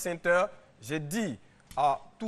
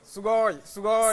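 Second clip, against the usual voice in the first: excited anime fan; 4 semitones higher, 6 dB louder than usual. Acted. Guest shows Japanese words.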